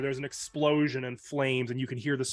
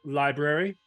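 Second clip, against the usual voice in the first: librarian. Acted. Librarian warning the maid.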